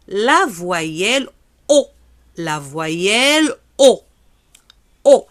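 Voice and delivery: "O" drawn out slowly with rounded lips; slow "la voyelle O" for the class; model vowel. Shown as a demonstration. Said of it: "teacher models vowel O slowly". ("O" lent, lèvres arrondies)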